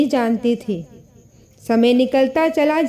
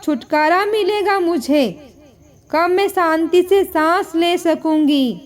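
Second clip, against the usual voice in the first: mildly raised, indignant daughter-in-law yelling at her mother-in-law; a touch of shouting, resentful and scolding; understated angry outburst at her mother-in-law; 2 semitones higher than usual. Acted. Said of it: "वह जोर से चिल्लाकर अपनी सास से कहती".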